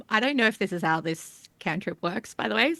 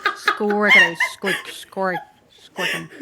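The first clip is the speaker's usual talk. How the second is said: badly faked squeak voice, breaking into laughs; squeaky animal chatter; 5 dB louder than usual. Player gives up on cartoon impression, failed squeaky chatter. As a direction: try squeak-talk and fail, amused. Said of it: "I can't do this voice".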